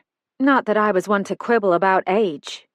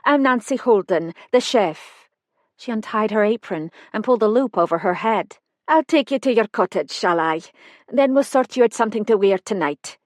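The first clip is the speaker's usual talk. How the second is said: light Highland Scots voice; a hint of Highland Scots; Highland accent. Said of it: "the accent pure Highlands".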